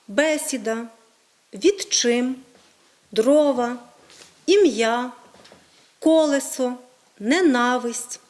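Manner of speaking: each word set apart, its stressed syllable punched; український наголос. Shown as a demonstration. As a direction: model Ukrainian stress from «бесіда» to «олень», word by word. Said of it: "інші наголоси, ніж в російській мові". (чітко наголошені окремі слова, з паузами)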